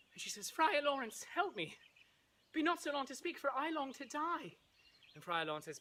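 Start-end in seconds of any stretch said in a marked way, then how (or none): 0.5-4.6 high, hammed-up distressed maiden; grief-stricken. Juliet begs the friar for help, mock grief. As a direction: plead in a high, mock-tragic voice. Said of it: "is beside herself with grief".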